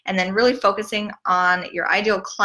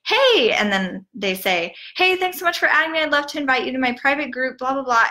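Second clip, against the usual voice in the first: high, quick, fake-friendly spam greeting; mocking spammy coaches; 5 semitones higher than usual. Coach spamming a new friend request, mock fake cheer. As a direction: parody a pushy coach's canned welcome. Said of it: "word vomit all over my messenger".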